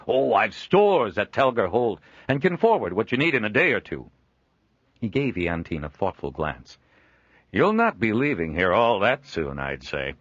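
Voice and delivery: a jovial trader chuckling at his own likeness; Joel, amused trader. Acted. Joel reassuring.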